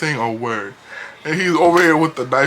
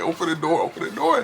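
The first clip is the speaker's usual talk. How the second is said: mock yelling; 3 semitones higher than usual. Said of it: "Everybody starts yelling".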